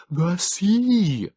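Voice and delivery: high, thin creature voice; Morlock urging. A narrator's reading. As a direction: press the point weakly. Morlock figure.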